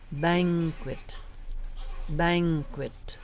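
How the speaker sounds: "banquet" said carefully as BANG-kwit; pronunciation demo. Shown as a demonstration. Trainer shows lectors a word, "banquet" enunciated carefully. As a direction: model "banquet" as a lone word, falling.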